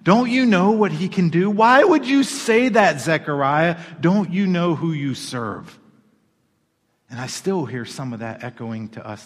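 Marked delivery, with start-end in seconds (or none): 0.0-5.8 louder, higher, incredulous; astonished angel. Retold or imitated. Angel rebukes doubting Zechariah, loud astonished questions. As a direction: demand it in disbelief. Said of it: "That's what I hear in that passage".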